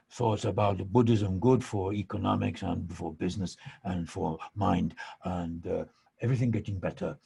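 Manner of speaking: sly, halting mock accent, mostly hushed; playful hint of the Dalai Lama's accented English. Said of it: "he looks at me with this sly look".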